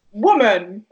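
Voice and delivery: loud, mock-scolding call; exaggerated blunt address; mock addressing a woman. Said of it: "first one he was like".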